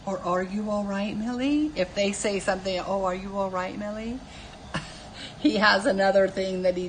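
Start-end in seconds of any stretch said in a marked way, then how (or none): 0.2-1.7 facetious, condescending. Acted. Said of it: "condescending way". 2.9-4.2 lightly patronizing question, name lifted softly; touch of mock concern; mildly condescending. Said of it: "condescending way".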